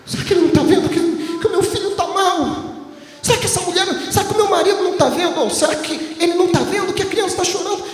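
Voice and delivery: high, rushed worried complaint; imitating the worried wife. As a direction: play the wife fretting that her husband does not care. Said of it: "E ela diz assim".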